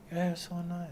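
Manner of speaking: a hint of an accented girl admiring his hair; light mock Asian accent. One tourist girl gushing over his locks in a light mock Asian accent. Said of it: "they all had that accent".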